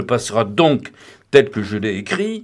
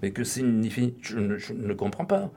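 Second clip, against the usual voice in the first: much softer, trailing murmur; the boy reading the telegram, murmuring in shock; murmured confusion; 7 dB quieter than usual. A narrator's reading. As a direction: say it barely above a breath, stunned.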